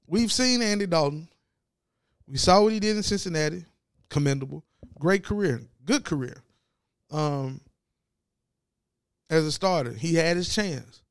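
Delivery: talking while chewing gum. Real, not acted. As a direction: speak around a piece of gum. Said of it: "I know I shouldn't have this gum in my mouth".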